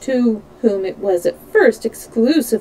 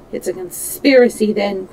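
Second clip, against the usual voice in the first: usual speaking voice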